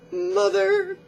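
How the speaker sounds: high, whimpering cry for mother; a sudden squeaky mock whimper. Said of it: "he whimpered".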